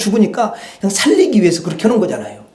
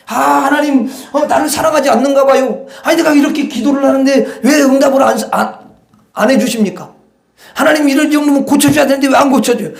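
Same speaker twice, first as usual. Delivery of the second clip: a believer grumbles at God over unanswered prayer, whining; whining complaint to God; 4 semitones higher than usual. Retold or imitated. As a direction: nag God like a sulking child.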